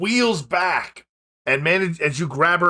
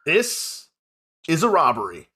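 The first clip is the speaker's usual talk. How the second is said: robber leader voice. Acted. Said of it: "the lead one says".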